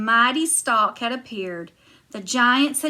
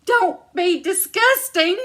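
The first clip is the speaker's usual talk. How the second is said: put-on higher, louder boy echoing her; Jack echoing; 8 semitones higher, 5 dB louder than usual. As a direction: Jack eagerly agreeing. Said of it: "said Jack".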